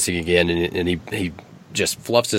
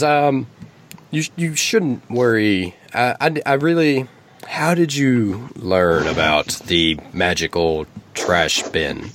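eagle voice; 2 semitones higher, slower than usual. Acted.

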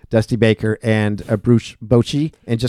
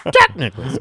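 Scottish first-tee announcer; Ivor Robeson impression. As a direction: call out a golfer's name like a tournament announcer. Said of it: "Ivor Robeson impersonation".

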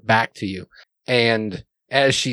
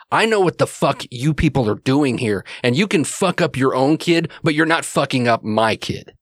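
a touch of heated indignation; lightly acted angry dad, stressing each accusation; mildly angry father; 3 semitones higher than usual. Game master acts angry father arguing.

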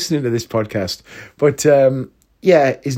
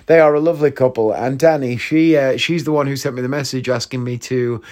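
ordinary talk, nothing marked

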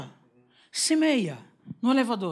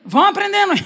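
laughing; 8 semitones higher, 7 dB louder than usual. Real, not acted. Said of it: "laughing aside to congregation".

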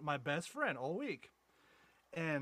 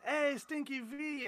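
drawn-out greeting; 11 semitones higher, much slower than usual. Retold or imitated. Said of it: "every time I'd see him".

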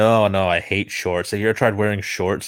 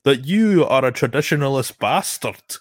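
higher, louder mock Scottish trainer scolding; imitating a stern Scottish trainer, hammed up; 5 semitones higher, 4 dB louder than usual. Imagined trainer lecturing Spencer Tracy, in a raised mock Scottish accent.

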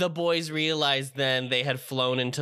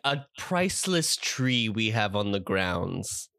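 low, slow, sneering drawl; lightly voiced Snape; 4 semitones lower, slower than usual. Quoting Snape.

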